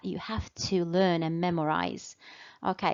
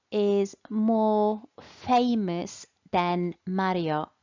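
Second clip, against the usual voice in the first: is more famous than Mario said slowly and clearly; slow correct model; slower than usual. Shown as a demonstration. Teacher modelling the correct comparative for pupils. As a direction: spell out the right form slowly. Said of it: "we don't say famouser".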